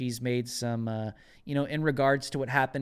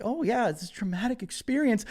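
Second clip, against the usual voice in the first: mocking quote; 8 semitones higher than usual. Mock quote of AOC.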